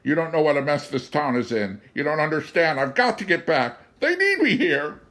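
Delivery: high, loud, urgent begging; pleading. A narrator's reading. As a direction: beg him desperately to be changed back. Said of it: "George pleaded".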